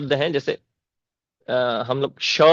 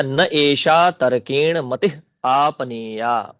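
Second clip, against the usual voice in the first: recitation; much slower than usual. Shown as a demonstration. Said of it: "इसको संधि विच्छेद कर देंगे".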